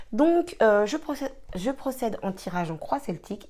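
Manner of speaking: slight lisp from a new tongue piercing; lisping around a tongue stud. Real, not acted. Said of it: "Excusez-moi si je zozote".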